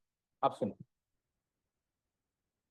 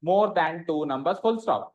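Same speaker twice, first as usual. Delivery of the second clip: slow, measured dictation to the full stop; much slower than usual. Shown as a demonstration. Teacher closing a dictated definition, slow dictation. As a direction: spell out the phrase at writing speed.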